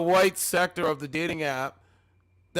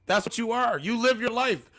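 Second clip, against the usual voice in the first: shouting him down on stream; angry raised rant; 4 semitones higher than usual. Real, not acted. Streamer shouting down a man on the dating stream, angry raised voice.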